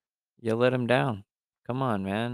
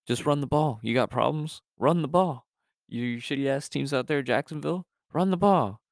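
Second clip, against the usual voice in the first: building fired-up rant; 6 semitones higher than usual. Real, not acted. Co-host yelling at shitty teams out there to run the ball, building shout. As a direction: yell it at the bad teams, building each time.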